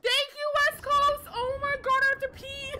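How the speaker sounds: loud excited yelling; excited shouting. Real, not acted. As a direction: yell it out overexcited. Overwhelmed by gifts mid-fight.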